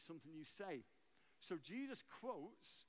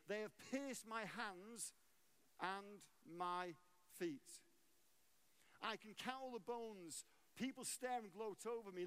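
raised-pitch psalm reading, line by line; preacher reciting scripture, slowing on key phrases; emphatic scripture reading; 3 semitones higher than usual. Acted. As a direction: read the psalm out to a congregation with force. Reads the psalm aloud.

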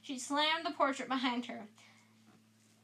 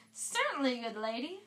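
cried out; 3 dB louder than usual. Acted. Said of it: "cried Sir Cadogan".

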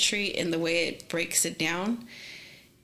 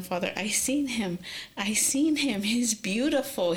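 retelling a tearful plea, lightly raised voice; retold tearful pleading; 3 semitones higher, slower than usual. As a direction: imitate pleading through tears, mildly. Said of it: "All I could do was cry".

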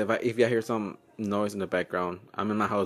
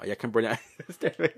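laughing; much faster than usual. Real, not acted. Laughing about being hard to understand.

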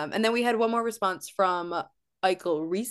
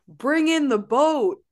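imitating Jeff; 6 semitones higher, 6 dB louder, slower than usual. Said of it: "He also starts the scene by going".

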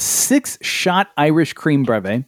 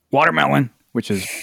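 said oddly. Acted. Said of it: "Why are you saying it like that?".

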